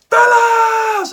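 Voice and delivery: loud, high yell of greeting; excited shout. Retold or imitated. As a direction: call out to them with full delight. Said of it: "I went".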